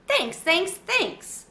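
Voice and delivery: high squeaky thanks; hamster squeak. A narrator's reading. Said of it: "I squeaked".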